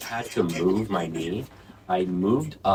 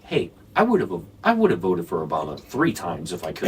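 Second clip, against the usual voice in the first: put-on older liberal guy. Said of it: "an older liberal white guy".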